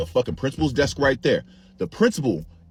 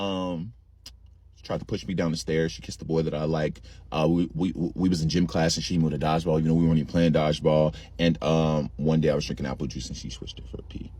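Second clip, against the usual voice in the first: put-on timid little girl; 9 semitones lower than usual. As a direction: mumble it like a scared child. Cousin as timid child reporting.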